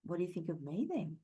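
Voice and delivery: put-on softly, a child's anxious inner thought; quiet inner worry. Sensitive child asking themselves if they're next, softly. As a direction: murmur it as a hurt child wondering. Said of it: "in their mind".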